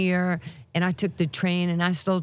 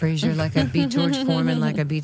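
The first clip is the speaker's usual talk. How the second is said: boxer's boast. Retold or imitated. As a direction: boast it like a champion on TV. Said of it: "I saw this man on T V".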